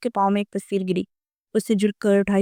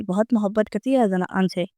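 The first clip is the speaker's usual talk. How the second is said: ordinary delivery, nothing marked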